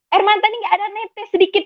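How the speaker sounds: laughing through the words, pitch up high. Real, not acted. Telling how no tear fell, laughing. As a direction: laugh it off in disbelief. Laughs recalling no tears came.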